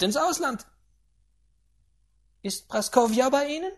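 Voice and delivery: put-on high, loud, scornful old lady; mocking grandaunt. A narrator's reading. Grandaunt sneering at the general's household, high and loud. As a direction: sneer at the spendthrift family.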